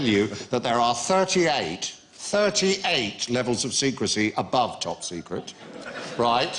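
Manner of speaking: lightly put-on spooky conspiracy theorist tone; hint of a secretive insider letting you in; a touch of conspiracy-theory mystique. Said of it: "Why are you talking like this?".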